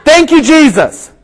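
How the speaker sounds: high-pitched mock shout; acted shout. Rider still trying to stop the dogs, high acted shout. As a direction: call it out, trying another command. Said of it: "And then he shouts".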